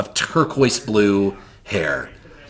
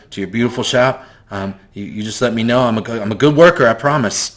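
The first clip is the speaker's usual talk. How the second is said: put-on frightened boy; faster than usual. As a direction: babble sorry to the shopkeeper, eager to please. GM voices the frightened boy apologizing.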